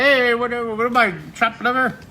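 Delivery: mock hurt high voice; neglected kid. Drawing teacher voicing the child left out. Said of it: "You're gonna say".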